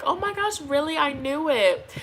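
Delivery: high-pitched but soft imitation of a delighted mother; lightly mimicked joyful gasp of news received; happy mom. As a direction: act out mom's happy surprise without raising volume. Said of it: "My mom was so happy to hear it".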